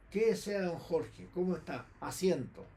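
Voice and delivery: lightly voiced stern school principal; a hint of an official receiving a visitor; headmistress voice. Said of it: "Ella con voz de rectora".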